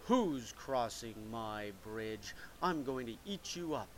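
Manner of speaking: big troll guarding his bridge, slow menace. Acted. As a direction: drag out the threat like a big troll. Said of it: "a big troll came up and said".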